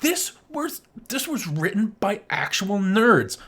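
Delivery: thrilled emphasis on nerds; excited. Real, not acted. Host telling co-host the writers were nerds, excited.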